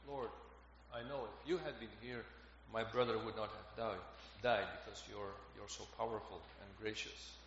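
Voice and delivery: low, subdued retelling of grief; understated grief. Retold or imitated. Martha grieving her brother before the Lord, quietly sorrowful. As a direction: let the grief sink softly, without blame. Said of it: "only expresses her grief".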